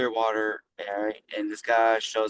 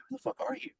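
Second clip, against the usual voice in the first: mock shocked friend; 9 dB quieter than usual. Best friend reacts to kneeling stranger.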